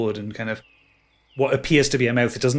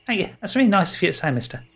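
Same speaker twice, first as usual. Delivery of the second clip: put-on beaming faun boy; 7 semitones higher, faster than usual. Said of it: "beams up at you and says".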